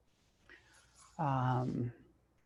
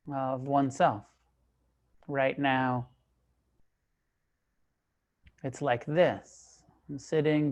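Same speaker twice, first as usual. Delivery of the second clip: calm, measured meditation guidance, long pauses between phrases; guided meditation. Real, not acted. Teacher leading a group into sitting meditation, calm and unhurried. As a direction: guide them into stillness, leaving space after each phrase.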